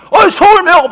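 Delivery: imitated stranger's shout; calling out. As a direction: hail someone from behind. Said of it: "막 따라오는 거야".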